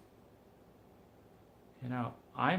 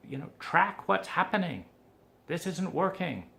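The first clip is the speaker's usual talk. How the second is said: mock scolding; 2 semitones higher than usual. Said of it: "I give him a shaking".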